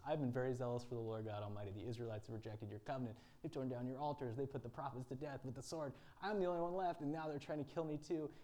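frantic prophet pleading to the Lord; panicked. Acted. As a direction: Elijah blurting out his fear. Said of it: "Elijah still is freaked out of his mind".

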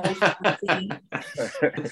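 slow, low words dissolving into laughter; amused, laughing through the words. Real, not acted. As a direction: let the sentence break up into a laugh. Joking about bed scenes, laughs.

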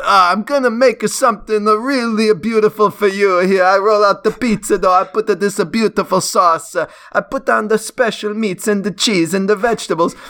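high-pitched, lilting mock Italian accent; hammed-up Italian accent, up high; Italian chef caricature. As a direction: play a proud Italian cook showing off. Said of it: "Italians are, they're like".

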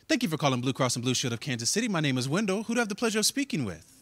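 polite customer service voice, quick and soft; smooth professional phone greeting. Retold or imitated. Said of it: "So I put on my phone voice".

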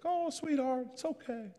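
put-on high, sweet old-lady voice; high-pitched, soothing little old lady; consoling old lady. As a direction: imitate an old woman comforting someone. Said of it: "She's like".

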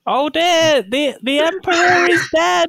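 high-pitched theatrical dismay; mock distress. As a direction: play a hammed-up shocked guardsman. Guardsman reacts to Emperor's death.

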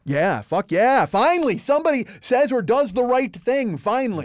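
high, loud, jubilant outburst; reenacted relieved cheer. Audience finally sees somebody do right, reenacted elated cheering. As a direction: let pent-up relief burst out. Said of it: "It's this weird release".

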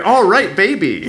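lightly hammed creep; sleazy guy voice. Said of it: "a guy going".

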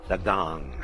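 loud, drawn-out words with pauses; ceremonial announcement. Real, not acted. Host announcing gong hits to clear the energy, loud and drawn out. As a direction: call it out slowly over the gong.

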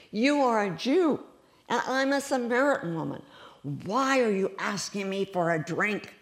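high, emphatic challenge; surprised. Acted. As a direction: question him in astonishment. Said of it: "The woman was surprised".

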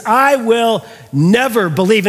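slow, firmly spaced retold vow; emphatic refusal. Thomas refusing the disciples' testimony, emphatic. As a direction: set each word down deliberately. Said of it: "do you notice how emphatic he is".

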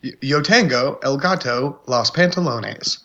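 mock Spanish accent. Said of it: "that Spanish voice, that beautiful accent".

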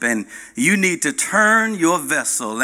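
commanding captain ordering the turn; mild stern command; captain's order. Acted. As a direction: tell them firmly to turn the vessel.

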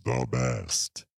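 high squeaky carrot bit. Pretend. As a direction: jump way up high for it. Improv carrot voice.

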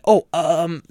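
hesitate, as if taken aback; hesitant. Retold or imitated. Store owner taken aback by a customer's request, hesitant. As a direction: caught off guard, stalling on a drawn-out um. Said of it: "I actually hesitated a little".

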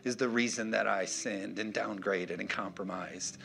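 low, soft blame-shifting; excuse-making. Acted. Preacher voices Adam blaming Eve, excuse-making. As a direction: quietly pass the blame along. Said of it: "Adam said".

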